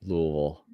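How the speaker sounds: Louisville as soft, low loo-uh-vul; local pronunciation. Shown as a demonstration. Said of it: "Yes, I say".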